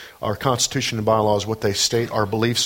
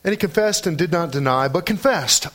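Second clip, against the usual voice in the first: higher, declamatory Bible reading; scripture reading; 7 semitones higher than usual. Acted. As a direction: read scripture out to the congregation. Reads scripture aloud to congregation.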